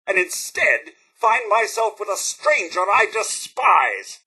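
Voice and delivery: slow, building disgust; indignant contempt. Acted. Butler rebuking a friend he admired, indignant. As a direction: spit out the betrayal with theatrical scorn.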